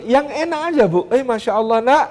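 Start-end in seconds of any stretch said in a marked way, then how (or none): 1.1-2.0 gentle encouragement. Shown as a demonstration. Mother praising a climbing child, soft and encouraging. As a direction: coax the child down kindly. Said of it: "ngomong apa yang bener".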